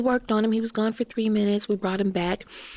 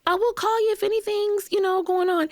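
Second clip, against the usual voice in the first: much higher breezy reassurance; higher cheerful staff voice; imitating nurses; 3 dB louder than usual. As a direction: reassure brightly, pitched way up. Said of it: "they're like".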